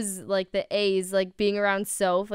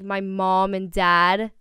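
put-on Jersey accent; slower than usual. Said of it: "she says, like".

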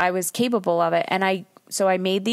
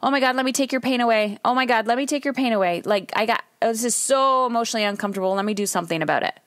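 frantic rescuer; 2 semitones higher, much faster than usual. Acted. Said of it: "do you try to rescue them".

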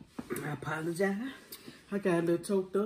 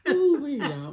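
laughing; 8 semitones higher, 6 dB louder than usual. Real, not acted.

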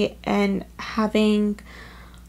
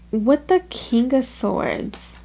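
hushed, slow whisper of the card name; much slower than usual. Real, not acted. Tarot reader whispering the card to viewers. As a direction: breathe the card name out slowly.

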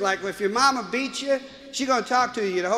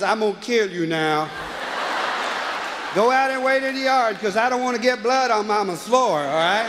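calm father threat; 4 dB louder than usual. Retold or imitated. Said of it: "he says".

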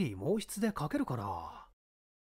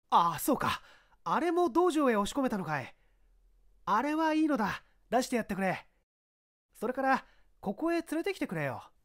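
higher, firm police chief giving orders; commanding inspector; 9 semitones higher, 3 dB louder than usual. Acted. Inspector instructs his subordinate, firm and raised. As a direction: order the men about with authority.

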